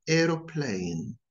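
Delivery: "aeroplane" said the American way, with a rhotic r; American pronunciation. Shown as a demonstration. Teacher showing learners the American accent. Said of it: "notice the differences between them".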